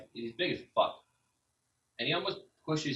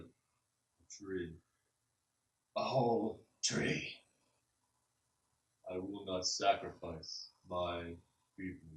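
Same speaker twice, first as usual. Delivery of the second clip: slow, soft, offended ancient tree voice; tree refusing to give up its people; indignant tree spirit; 4 dB quieter, much slower than usual. Acted. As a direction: drag out the disbelief like creaking wood.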